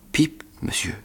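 tiny breathless whisper; frightened whisper. A narrator's reading. Scared boy whispering his name to the convict. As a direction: barely dare to say it.

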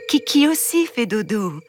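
put-on losing patience with the child; exasperated mother. The queen answers her son's correction, exasperated.

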